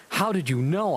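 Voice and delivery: a hammed-up gasp of a question; surprised question. Heroine surprised that Voldemort knows, mock surprise. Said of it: "I asked in a surprised way".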